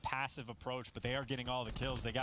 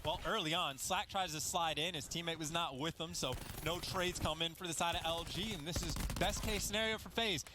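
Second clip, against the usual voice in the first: energetic esports casting, rolling on; running commentary on a live match; live play-by-play; 2 semitones higher than usual. Real, not acted. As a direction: call the action as it unfolds.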